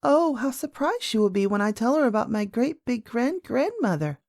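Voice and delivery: lightly voiced excited little girl; a swooping, eager child's exclamation; little princess. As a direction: play a young princess full of news. Princess anticipates nurse's surprise.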